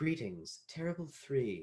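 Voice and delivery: recorded feminine elevator announcement voice. Voicing an elevator greeting the party: feminine elevator voice. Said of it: "feminine voice comes over and goes".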